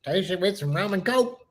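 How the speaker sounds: lightly mimicking a backwoods drawl; playful hillbilly drawl echo. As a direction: put on a country backwoods accent. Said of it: "that real thick backwoods drawl".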